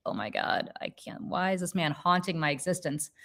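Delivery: mock despair at the neighbor's return; exasperated aside. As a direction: sink into weary disbelief. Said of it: "And I'm like".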